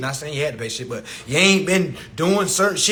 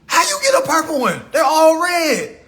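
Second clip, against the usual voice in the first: woman asking, calmer; 9 semitones higher, 4 dB louder than usual. Retold or imitated. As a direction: come down from the shriek and ask it fast. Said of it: "But let a woman do it".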